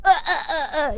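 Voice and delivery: high repeated "uh" noises; mock stabbing grunts. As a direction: act out jabbing with short pretend grunts. Acting out stabbing her eyeballs.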